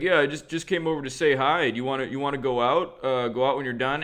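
lightly voiced casual bro; hint of a bro voice; bro voice impression. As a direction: imitate a bro inviting his buddy out. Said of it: "they both had these voices".

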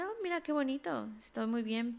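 mock delight. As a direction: gush like a pleased bird. Parrot mimics its earlier delight.

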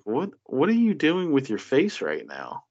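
high, puzzled mock question; incredulous what are you doing; baffled quote. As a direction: act baffled at the face. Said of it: "you're looking at it like".

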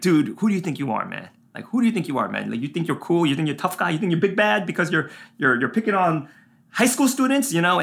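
replaying the heated challenge, half-acted; retold yelling. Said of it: "I start yelling at everybody".

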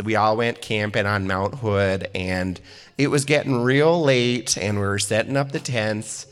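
lightly hammed-up South Dakota accent; South Dakota mom telling a camping story; thick South Dakota accent. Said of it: "she has a very thick accent".

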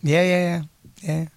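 usual speaking voice

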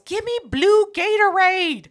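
drawn-out yell for blue Gatorade, slow; mock shout of an order; retold yell. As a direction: call it out across the store. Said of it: "Pierre just yells".

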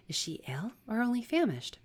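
high, lightly voiced questioning woman; concerned sister. Sister asking about the fainting stranger, concerned.

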